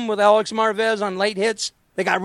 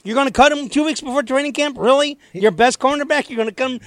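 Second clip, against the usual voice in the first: higher and louder, imitating disbelief; mock incredulous; 5 semitones higher, 4 dB louder than usual. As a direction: replay your own disbelief at the rumour. Retold incredulous reply to a reporter.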